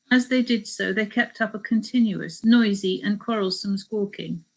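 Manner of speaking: measured travel memoir reading; story narration. A narrator's reading. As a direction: read the account aloud to listeners. Reads a book extract aloud.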